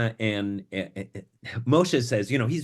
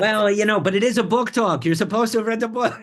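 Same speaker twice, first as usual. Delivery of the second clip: playful mock scolding, much higher and louder; teasing; 11 semitones higher, 8 dB louder than usual. Real, not acted. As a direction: tease her for not reading it. Teasing the other reader.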